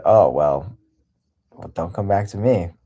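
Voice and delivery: caring, gentle brush-off; loving tone. Retold or imitated. Quoting himself to his ex, caring tone. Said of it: "in a loving tone, in a caring tone".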